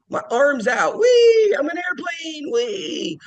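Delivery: high gleeful kid pretending to fly; child playing airplane, excited; playful whee.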